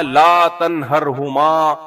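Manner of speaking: slow, drawn-out recited verse; quranic recitation. Shown as a demonstration. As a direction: intone it like reciting scripture. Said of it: "قرآن میں صاف اللہ نے فرمایا". (تلاوت کے انداز میں آہستہ)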